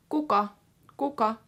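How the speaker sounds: kuka said quick and light; kuka, rushed through. Shown as a demonstration. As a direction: rush right through kuka. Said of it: "just rush right through it".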